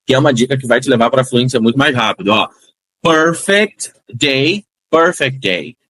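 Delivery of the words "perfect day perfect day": perfect day with the t of perfect dropped, run together; silent T. Shown as a demonstration. Teacher showing the t disappearing in fast speech. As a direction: let perfect glide into day. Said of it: "Esse Tzinho, ele não é pronunciado".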